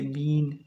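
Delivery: "बीन" with a lengthened ee; long ई sound. Shown as a demonstration. Teacher listing examples, long ई in "बीन". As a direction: hold the vowel in "बीन". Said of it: "ये तो lengthy है".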